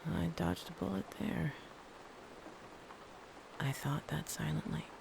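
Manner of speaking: hushed confession; wry whispered punchline; whispered aside. Real, not acted. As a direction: whisper it like a secret.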